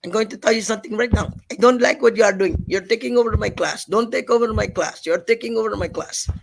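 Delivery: put-on stern accented teacher scolding; angry Filipina teacher. Teacher scolding the class clown, stern and accented. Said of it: "Filipina teacher gets really mad and she says".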